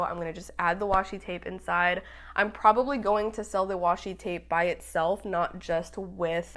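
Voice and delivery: muffled behind a hand; hand over mouth. Real, not acted. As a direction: talk with a hand over the mic. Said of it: "I was covering up my mic".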